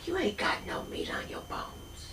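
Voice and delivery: soft, whispered auntie fussing; fussing Southern auntie; relatives' voice. Retold or imitated. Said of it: "they're like".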